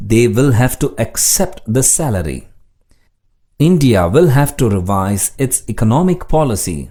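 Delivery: slow, deliberate example sentences; slow dictation reading. Shown as a demonstration. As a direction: read each sentence slowly for learners.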